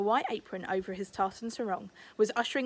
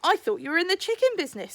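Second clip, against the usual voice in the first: quick Chullock; 8 semitones higher, 5 dB louder, faster than usual. A narrator's reading. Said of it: "said Chullock".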